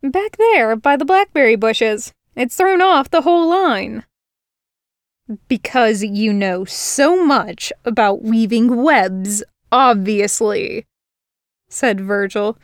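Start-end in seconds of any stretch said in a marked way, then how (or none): 0.0-4.0 put-on higher, lightly helpful girl voice; girl showing him the dropped stitch; chatty human girl. Girl explaining the flaw. 5.5-10.9 slow, sneering sarcasm; sarcastic sneer. Acted. Virgil sneering.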